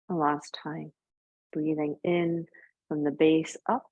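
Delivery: calm yoga teacher voice with long pauses; guided breathing. Real, not acted. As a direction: guide them gently through each breath, leaving space.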